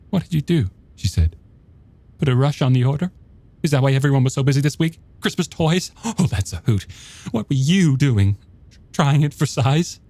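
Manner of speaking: high, rapid sarcastic wife voice; a wife mocking her husband's lies; accusing wife. A narrator's reading. Joanna confronts her husband.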